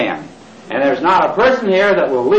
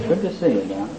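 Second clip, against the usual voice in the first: mock greeting; 4 semitones lower, 11 dB quieter than usual. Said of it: "meet each other and you say".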